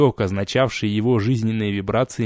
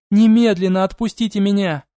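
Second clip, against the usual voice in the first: high, loud furious order; indignant demand; 9 semitones higher, 4 dB louder than usual. Acted. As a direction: order them off her, outraged. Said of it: "возмутилась Элани".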